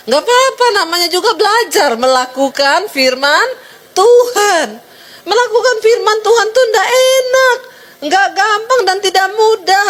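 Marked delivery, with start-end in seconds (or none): 4.0-9.8 impassioned preaching. Real, not acted. Preacher pleads, voice high.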